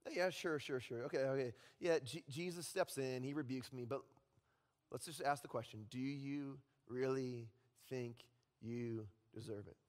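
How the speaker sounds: Satan whispering on. Acted. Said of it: "Satan whispers in his ear".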